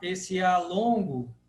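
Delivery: the A held long and open. Shown as a demonstration. Teacher drawing out the long A for students. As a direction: stretch the A. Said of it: "termina com A longo".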